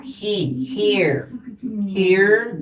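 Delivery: HE, HERE said one by one, here with an I sound; teacher showing how "here" sounds; pronunciation demo. Shown as a demonstration. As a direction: model "here" for learners, vowel like Spanish I. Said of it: "Mire cómo se pronuncia".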